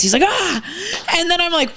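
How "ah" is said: retold scream. Telling friends how he screamed at the door, mock scream. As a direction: imitate a startled scream at soft volume. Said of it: "and he screams".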